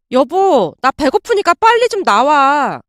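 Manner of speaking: a touch of impatient urging; pressing impatiently. Acted. Wife hurrying her late-sleeping husband, mildly impatient. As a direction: hurry him along, mildly pushy. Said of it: "다그치듯 말을 했어요".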